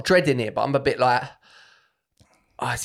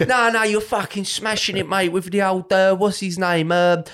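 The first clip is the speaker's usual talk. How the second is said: put-on higher, gushing drunk fan voice; mock drunk fan; 6 semitones higher, slower than usual. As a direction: ham up an overexcited pissed fan. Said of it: "drunk fan at a gig praising him".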